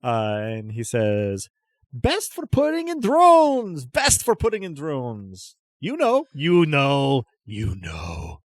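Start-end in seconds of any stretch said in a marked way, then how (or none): 1.9-8.4 eccentric trader. Acted. Crazy stallholder pushing drone parts on a buyer, excitable, then tailing down. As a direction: burst out high, then sink into a confiding repeat.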